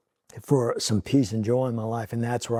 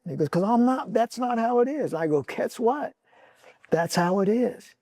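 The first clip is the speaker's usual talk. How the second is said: higher, pressing each point home; insistent arguing; 9 semitones higher than usual. Retold or imitated. Father arguing with his son CJ about holding on to belief, insistent and high. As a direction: argue him round, earnest and urgent.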